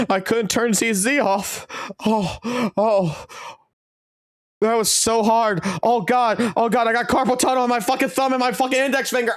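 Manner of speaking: high-pitched, hammed-up mock whining. Mocking a whiny gamer, hammed-up high wail. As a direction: wail in fake agony about a thumb. Sarcastic whining about quitting game.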